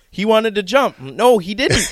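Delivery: imitating a little girl. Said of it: "She goes".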